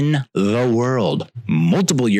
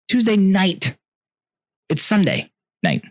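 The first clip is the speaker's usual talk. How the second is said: disbelief; 10 semitones higher than usual. Real, not acted. Disbelief at next flight.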